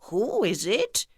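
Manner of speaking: wolf faking a sweet grandma voice, lightly done; the wolf sweetly pretends to be grandma; a hint of a sugary fake grandma; sweetest voice. A narrator's reading. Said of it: "in the sweetest voice he could manage".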